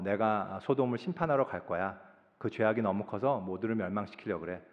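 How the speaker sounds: God. Acted. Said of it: "하나님이 그러시는 거예요".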